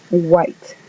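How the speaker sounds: white, W sounding like G; English word white. Shown as a demonstration. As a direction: start white with a G-like W. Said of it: "La W suena como G". ("white" con W como G)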